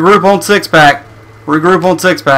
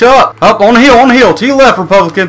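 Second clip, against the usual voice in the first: urgent callout; 6 semitones higher than usual. Real, not acted.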